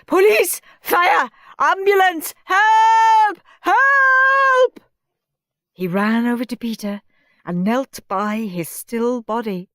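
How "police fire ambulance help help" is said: high, loud panicked cries; frantic shouting. A narrator's reading. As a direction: scream for every service at once. Teacher screams for help.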